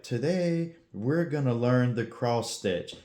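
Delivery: slow, droning monotone. Retold or imitated. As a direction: drone it out like a bored teacher. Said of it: "she had a very monotone voice".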